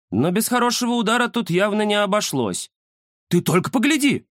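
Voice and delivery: peer in eagerly and point it out; excited tomcat. A narrator's reading. The cat spots something through the window, high and eager.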